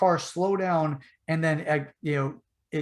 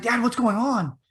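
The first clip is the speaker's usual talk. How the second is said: put-on child voice; 7 semitones higher than usual. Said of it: "I was like".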